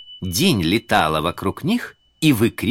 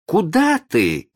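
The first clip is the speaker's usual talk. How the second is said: окрик; 11 semitones higher, 5 dB louder, slower than usual. Acted. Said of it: "крикнула она".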